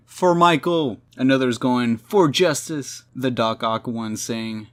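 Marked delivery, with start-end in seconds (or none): 0.1-1.0 high, loud battle cry; mock scream. Villain screaming while chasing the heroes, mock scream. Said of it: "One of them screaming". 2.0-3.0 high, loud, drawn-out rallying cry; mock battle cry. Another villain chasing the heroes, mock battle cry.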